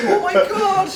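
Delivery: put-on Irish accent. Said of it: "that's the Irish accent".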